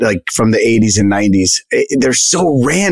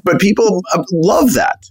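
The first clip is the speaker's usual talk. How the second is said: raised, delighted exclamation; amused marvel; 8 semitones higher than usual. Retold or imitated. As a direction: marvel at the obscure joke. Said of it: "And I was like".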